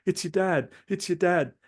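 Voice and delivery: put-on a young nurse runs in puffing with urgent news. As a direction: rush it out like a breathless young nurse. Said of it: "puffing, like".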